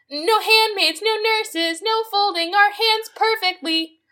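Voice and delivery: high, sing-song fake Asian accent, slowing down; mocking the song's fake Asian accent. Mocking a racist Disney song, in its fake Asian accent. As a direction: parody the song's stereotyped Asian accent, drawn out. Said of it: "Mickey Rooney racist accent".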